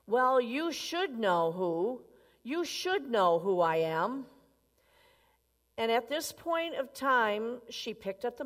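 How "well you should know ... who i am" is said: slow, stress on "should"; lecturing insistence. Acted. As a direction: spell it out to her slowly. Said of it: "really angry".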